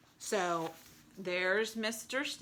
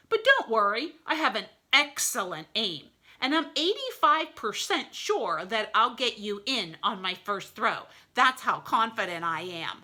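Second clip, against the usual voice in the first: louder, cocky reassurance; a hint of an overconfident wolf; boastful wolf; 3 semitones higher, 5 dB louder than usual. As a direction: brag with false confidence.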